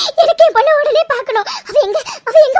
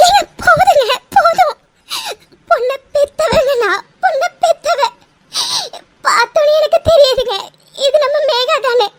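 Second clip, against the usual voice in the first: tearful joy. Acted. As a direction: sob the words out through happy tears. Mother recognizes her lost daughter. (ஆனந்தக் கண்ணீருடன் அழுகை)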